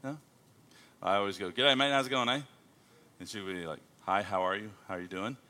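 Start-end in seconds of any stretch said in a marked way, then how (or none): 1.5-2.4 friendly greeting in Australian slang and accent. Shown as a demonstration. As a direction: greet them like an Aussie. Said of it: "I speak Australian".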